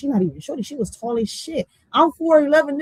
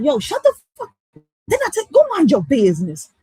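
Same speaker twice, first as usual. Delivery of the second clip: loud, high scolding yell; yelling at a kid; 6 semitones higher, 6 dB louder than usual. Pretend. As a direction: snap at a kid to go to their room. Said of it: "I should be like".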